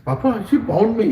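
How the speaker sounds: put-on high, childish tattling voice; complaining little child. Little Krishna tells Papa on his mother, complaining child. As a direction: complain to daddy like a small boy. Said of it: "Krishna at that time sneaks into Nanda Maharaj's godi".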